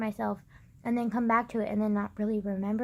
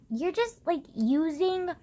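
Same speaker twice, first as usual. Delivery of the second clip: indignant rant; 5 dB louder than usual. Retold or imitated. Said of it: "I'm just like".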